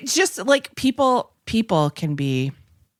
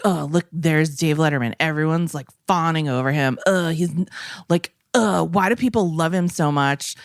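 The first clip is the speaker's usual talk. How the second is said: bitter griping. Retold or imitated. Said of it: "just really, like, bitter, vitriolic".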